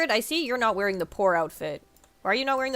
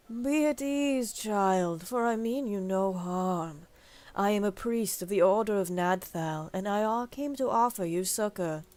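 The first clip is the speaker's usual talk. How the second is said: slow, soothing preacher voice; smooth, lightly voiced swindling priest; false priest. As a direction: lure them in gently.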